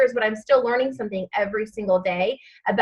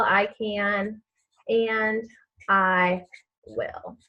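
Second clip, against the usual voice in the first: fading to a whisper; 3 semitones lower, 7 dB quieter, much slower than usual. Shown as a demonstration.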